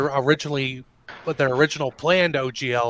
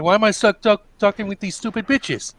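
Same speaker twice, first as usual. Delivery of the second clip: higher-pitched mock rant; retold exasperation; 6 semitones higher than usual. Retelling the boy's parting outburst, mock exasperated. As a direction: imitate a fed-up teenager going off. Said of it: "he basically goes off on them".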